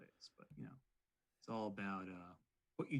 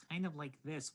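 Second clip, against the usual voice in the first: nasal voice; 5 semitones higher than usual. Shown as a demonstration. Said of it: "in a nasally sounding voice".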